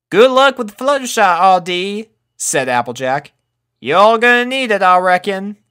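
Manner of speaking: Applejack voice. A narrator's reading. Applejack sending her off.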